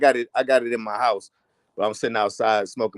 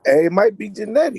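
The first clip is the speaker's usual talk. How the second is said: chewing tobacco; 8 semitones higher, 3 dB louder than usual. Real, not acted. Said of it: "I got tobacco in my mouth right now".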